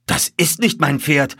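high, loud protest; exclaiming. A narrator's reading. Colonel disowning the horse before him, exclaiming. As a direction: cry out in indignant disbelief. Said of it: "rief der Oberst".

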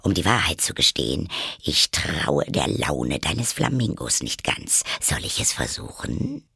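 low-pitched, chummy duchess voice; moralizing duchess. Acted. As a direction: play a duchess cosying up to Alice. (tiefe, vertrauliche Herzoginnenstimme)

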